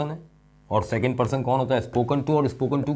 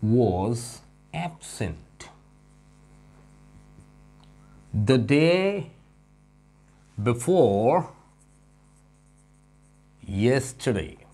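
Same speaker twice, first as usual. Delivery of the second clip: slow dictation; 2 semitones higher, much slower than usual. Shown as a demonstration. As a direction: read the sentence out as dictation. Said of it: "अच्छा".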